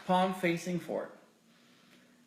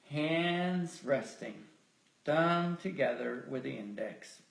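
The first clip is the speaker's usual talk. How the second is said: guided meditation. Real, not acted. Leader settling the group after breathwork, guided meditation. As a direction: ease them into stillness, with long pauses.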